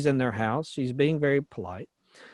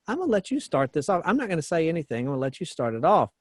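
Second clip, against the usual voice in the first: quick, softer self-controlled retort; imitated self-control; 4 dB quieter, faster than usual. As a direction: lightly act out holding back, quickly. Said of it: "she's being very self-controlled here".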